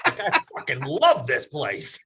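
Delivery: real laugh through the words; delighted, laughing as he says it. Real, not acted. Host recalling a Scottish old man's compliment, laughing. Laughing about golf story.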